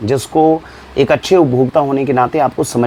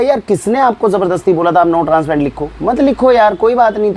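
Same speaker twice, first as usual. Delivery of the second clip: raised-pitch remonstrance, retold; retold exasperated protest; 5 semitones higher than usual. Retelling his protest to the biscuit brand, mildly exasperated. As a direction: re-enact arguing with the company, voice lifted.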